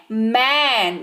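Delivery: मैन with a drawn-out open "ae"; pronunciation demo. Shown as a demonstration. Teacher quizzing learners on reading, slow pronunciation demo of मैन. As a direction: stretch मैन slowly as "maen". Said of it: "कैसे पढ़ रहे हैं?".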